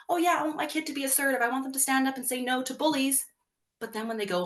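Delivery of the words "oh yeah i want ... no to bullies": higher, fast, breezy parent approving; eager parent. Retold or imitated. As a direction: gush like a parent who means well. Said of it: "a lot of parents go".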